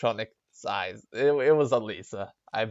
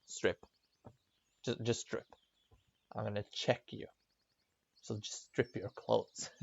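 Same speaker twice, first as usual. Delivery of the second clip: curt nurse voice; 3 semitones lower, 13 dB quieter than usual. Retold or imitated. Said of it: "It's just the way she talks".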